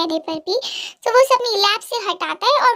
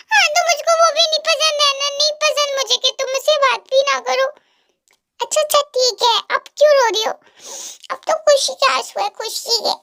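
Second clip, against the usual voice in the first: heroine voiced higher, hurt and sulky; teary heroine scolding; 5 semitones higher than usual. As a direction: scold him like a girlfriend who has been crying. Heroine answering a singer. (रोई हुई लड़की की रूठी आवाज़)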